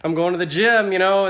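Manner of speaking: animated retelling of a self-mocking elevator gag; excited retold joke. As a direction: sell the punchline like a stand-up. Retelling his own elevator joke.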